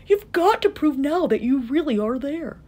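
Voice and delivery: high, insistent call; urgent calling. A narrator's reading. Horton tells the mayor to gather everyone, calling urgently. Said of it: "Horton called".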